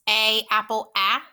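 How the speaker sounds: letter, key word, then the sound alone; vowel sound drill. Shown as a demonstration. Teacher modeling the short A sound for students. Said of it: "at our vowel sounds".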